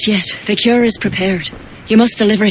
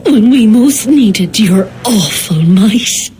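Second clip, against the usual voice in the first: bitter accusation; 3 semitones higher, slower than usual. Acted. High Druid accuses former ally.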